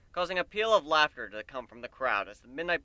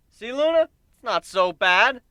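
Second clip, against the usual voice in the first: loud, higher, slow encouraging call; cheerful call; 8 semitones higher, 12 dB louder, slower than usual. A narrator's reading. Narrator encouraging Luna, loud and cheery. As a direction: cheer her on from the stage.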